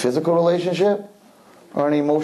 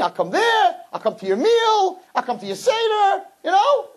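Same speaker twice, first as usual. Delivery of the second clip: eager suitor. Retold or imitated.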